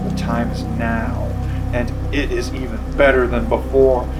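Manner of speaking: dramatic commercial voiceover; ad read. Acted. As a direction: read it like a beer ad. Reads promo copy.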